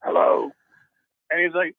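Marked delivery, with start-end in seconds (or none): 0.0-0.5 a voiced, slightly put-on hello; caught-out young musician, second try at a mock disguised hello. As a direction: answer in a mild fake voice to hide who you are. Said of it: "I try to disguise my voice".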